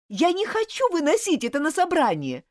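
loud, high, urgent cry; pleading shout. Acted. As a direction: cry out to make him listen. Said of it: "крикнула Элизабет".

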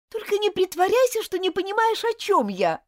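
loud, high, losing patience; impatient shout. Acted. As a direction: shout it at him, fed up. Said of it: "выкрикнула Элизабет, теряя терпение".

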